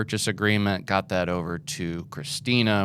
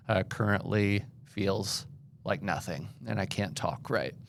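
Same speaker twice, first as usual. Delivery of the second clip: lisping with a numb face; numb from the dentist; 2 semitones higher than usual. Real, not acted. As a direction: talk through a numb mouth after a root canal. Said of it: "I'm lisping because I just literally got a root canal".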